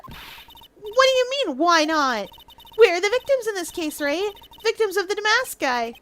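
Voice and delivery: high, incredulous objection; indignant assistant. Acted. Assistant objects to lawyer defending the client, indignant.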